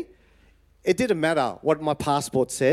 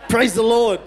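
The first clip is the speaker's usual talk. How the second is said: laughing praise; 5 semitones higher, 7 dB louder than usual. Real, not acted. Joyful exclamation about the food, laughing.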